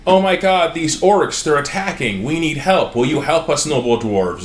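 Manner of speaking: high frantic plea for help; panicked humans begging. Retold or imitated. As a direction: beg the dwarves in a panic, voice up high. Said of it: "were like".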